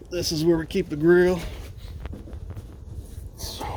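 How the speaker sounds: straining while lifting; grunting with effort. Real, not acted. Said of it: "sorry about the grunting".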